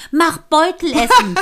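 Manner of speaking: loud, slow, laughing retelling; amused loud quote. Retold or imitated. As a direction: laugh through the words Mach Beutelessen. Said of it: "Das fand ich auch so witzig".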